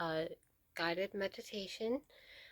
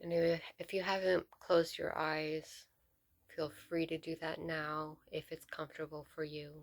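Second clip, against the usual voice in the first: measured meditation guide with long pauses between phrases; guided meditation. Real, not acted. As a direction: lead them gently into stillness, leaving space to breathe.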